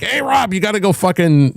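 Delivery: high, egging-on voice, mocking the guys; mock hyped-up buddies. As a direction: pitch it up like friends cheering him on. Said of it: "So they were like".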